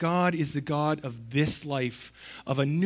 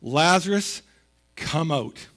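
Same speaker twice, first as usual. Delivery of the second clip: loud call; 4 dB louder, slower than usual. Acted. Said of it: "called out in a loud voice".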